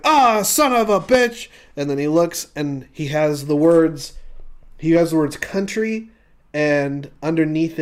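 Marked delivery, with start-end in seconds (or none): 0.0-1.5 louder, higher frustrated outburst; mock angry curse. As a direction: curse at the spilled coffee. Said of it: "and it's like".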